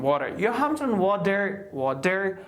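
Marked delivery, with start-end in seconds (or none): 0.0-0.4 WATER with a full, heavy D for the T; hard D. Shown as a demonstration. Teacher shows the wrong version, WATER with hard D. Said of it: "water نمیخوانیم". 1.8-2.4 WATER with a full, heavy D for the T; hard D. Shown as a demonstration. Teacher shows the wrong version, WATER with hard D. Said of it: "نمیخوانیم".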